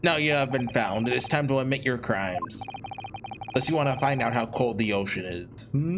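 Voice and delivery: put-on amateur Russian interrogator accent. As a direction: threaten in a mock Russian accent. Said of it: "Oh, Russian guy".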